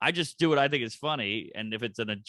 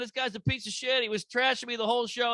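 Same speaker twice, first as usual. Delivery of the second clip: pleading hotly that they don't get it; retold heated protest; 10 semitones higher than usual. Comic retelling how he yelled at the crowd, mock protest.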